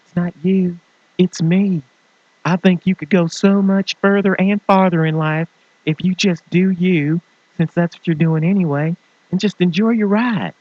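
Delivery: high, sing-song mock-sweet breakup voice; little funny voice. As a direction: let them down in a silly high voice. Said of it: "without the little funny voice".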